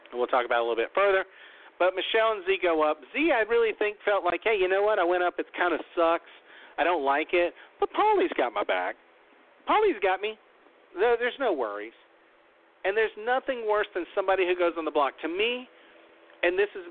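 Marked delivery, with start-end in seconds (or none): 4.4-11.9 higher, breezy retelling of Z shrugging it off; mock carefree Z. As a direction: play Z as unbothered, sure Paulie has her back. Z's relieved inner voice, retold.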